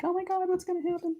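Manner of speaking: fast, high mock worry; mock nervous panic. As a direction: play the dread of lifting the stencil, hammed-up. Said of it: "you're like".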